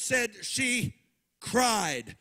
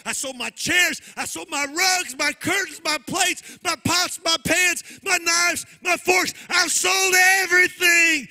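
desperate begging; 4 semitones higher than usual. Acted. Preacher voicing the widow begging the prophet, rising to a shout. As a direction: list it all out, climbing higher. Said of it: "a desperate woman begging".

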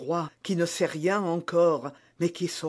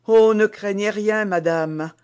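a hint of tears, louder, urgent; tearful young maid; 4 semitones higher, 8 dB louder than usual. A narrator's reading. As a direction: reassure the queen through her own tears. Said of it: "en pleurant elle-même". (jeune femme émue, un peu larmoyante)

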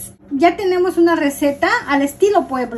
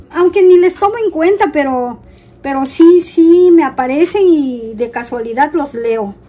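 defiant rant; 3 dB louder than usual. Real, not acted. Defiant reply to hateful comments.

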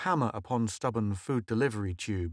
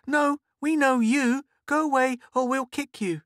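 put-on threatening girl; 6 dB louder than usual.

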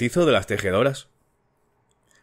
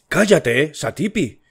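brusque; 5 semitones higher, slower than usual. A narrator's reading. Husband silences his shouting wife, brusque command. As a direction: cut her off curtly. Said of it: "dijo con insólita brusquedad".

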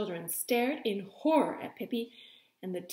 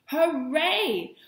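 high, loud cheer; delighted cheer; 6 semitones higher, 7 dB louder than usual. Acted. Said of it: "clapped their hands with delight".

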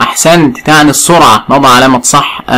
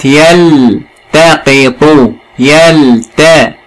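slow syllable demo; much slower than usual. Shown as a demonstration. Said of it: "من قواعد التقطيع".

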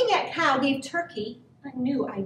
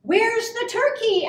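higher-pitched questioning voice; farmer's wife; 8 semitones higher than usual. A narrator's reading. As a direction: ask it high, puzzled, lightly in character. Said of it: "asked Farmer Jake's wife".

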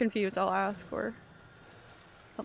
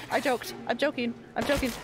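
frantic pleading. Real, not acted. Chased, pleading.

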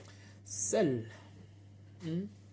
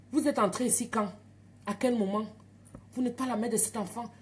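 retold suspicious questioning; 3 semitones higher than usual. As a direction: interrogate her like an intruder. Midwife interrogates her.

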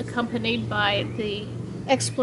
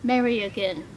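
measured poem, short phrases with pauses; poem reading. Acted. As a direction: let each line fall gently at its end. Poet reads own poem aloud.

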